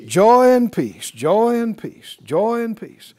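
loud drawn-out declaration, easing off with repeats. Shown as a demonstration. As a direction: proclaim it slowly for a congregation to repeat. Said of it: "Said out loud".

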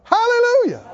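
very high, loud hallelujah; exultant shout. Real, not acted. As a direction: cry it out to the rafters. Preacher's exultant cry.

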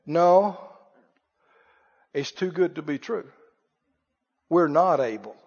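mopey defeatist mumble; defeated refusal. Acted. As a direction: drop the voice like you've lost hope. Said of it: "the men ... said".

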